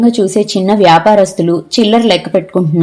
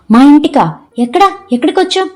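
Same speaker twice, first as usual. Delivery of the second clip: rising higher and higher, breathless with hope; can't believe she's home; eager disbelief; 6 semitones higher than usual. A narrator's reading. Mother realizes she is home. (ఉద్వేగంతో ఆశ్చర్యం)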